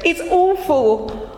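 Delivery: high, slowed plea for help; poor man begging the rabbi for help, high and pleading. Acted. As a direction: beg the rabbi, near despair. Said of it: "he said".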